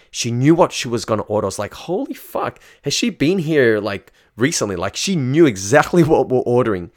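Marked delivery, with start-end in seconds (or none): 1.7-4.8 shocked disbelief. Retold or imitated. Shocked she knows menu.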